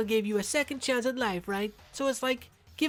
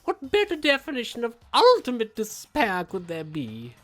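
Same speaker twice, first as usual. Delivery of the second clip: gleeful villain; 4 semitones higher, 5 dB louder than usual. Acted. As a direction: savour every word of despair. Villain proclaims despair.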